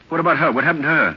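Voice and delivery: urgent demand. Acted. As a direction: press anxiously for an answer. Demands news of missing woman.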